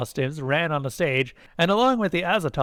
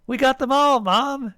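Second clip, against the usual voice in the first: put-on high, loud child's boast; eager little creature, pitched high; proud; 11 semitones higher, 5 dB louder than usual. A narrator's reading. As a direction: announce it proudly to mother. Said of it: "an Azatoth said proudly".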